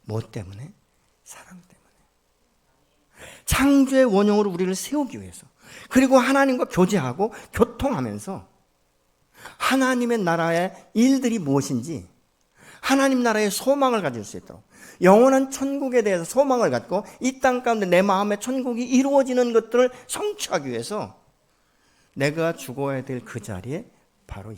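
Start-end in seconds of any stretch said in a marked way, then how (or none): 1.2-3.4 very slow, near-silent whisper. Real, not acted. Preacher answering his own question in a slow whisper. 3.4-21.2 loud, higher, impassioned sermon; preaching at full force. Real, not acted. Preacher proclaiming heaven's hope to the congregation, loud and fervent.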